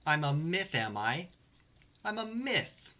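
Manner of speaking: hammed-up offended outburst; offended outrage.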